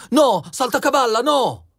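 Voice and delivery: high-pitched protest; pleading king. A narrator's reading. King begs the jester not to leave, pleading. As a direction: call him back in a high, pleading voice.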